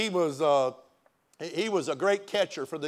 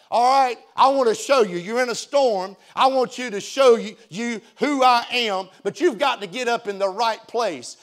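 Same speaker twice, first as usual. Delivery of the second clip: God speaking; 4 semitones higher, 5 dB louder than usual. Retold or imitated. Voicing God speaking to Habakkuk.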